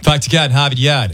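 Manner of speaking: lightly done Boston accent, r's dropped; a quick mock of a Boston local. Shown as a demonstration. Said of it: "There it is".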